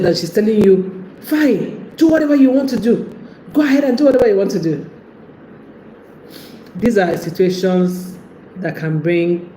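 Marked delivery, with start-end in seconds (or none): 1.2-4.9 high, fast snapping at him; sulky fine delivered fast and sharp; upset girlfriend. Retold or imitated. Upset woman telling her partner she's fine, high and fast. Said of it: "she's clearly upset".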